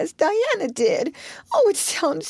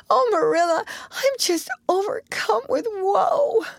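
put-on high wailing girl's lament, much higher and building to a cry; 10 semitones higher than usual. Anne tells Marilla her woes, wailing high. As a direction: Anne wails to Marilla about Missus Barry. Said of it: "she wailed".

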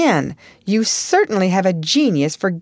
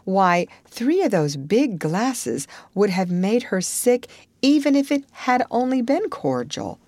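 curt. Acted. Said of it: "said Marilla shortly".

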